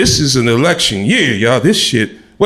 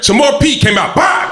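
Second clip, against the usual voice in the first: panicked outburst; 9 semitones higher than usual. Retold or imitated. Panicked storytelling climax.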